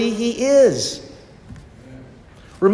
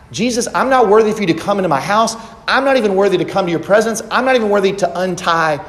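earnest confession; 2 semitones higher, faster than usual. Retold or imitated. Preacher voices humble believer.

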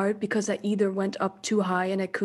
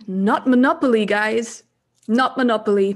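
joking emphasis; 2 semitones higher, 7 dB louder than usual. Real, not acted. Joking aside inside lyrics.

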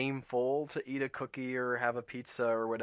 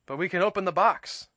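Toad voice; 6 semitones higher, 6 dB louder, faster than usual. A narrator's reading. Toad objects to Frog.

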